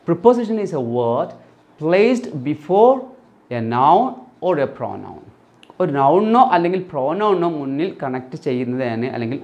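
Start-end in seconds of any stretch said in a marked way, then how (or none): 0.1-5.2 very slow definition, word by word; teacher dictating a definition slowly; slow dictation. Shown as a demonstration. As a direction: read the rule out slowly for students. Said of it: "slow definition read out".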